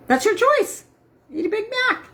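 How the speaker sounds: squeaky high, teasing permission; high permissive voice. Pretend. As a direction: chirp it like a cheeky enabler.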